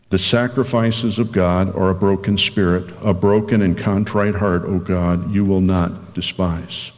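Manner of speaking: slow, solemn reading of the psalm; scripture reading. Acted. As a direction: read it like a prayer, unhurried. Pastor reads Psalm fifty-one.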